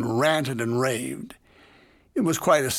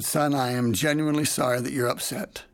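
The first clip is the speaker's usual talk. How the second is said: mildly quiet and calm. Retold or imitated. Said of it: "I simply and quietly said".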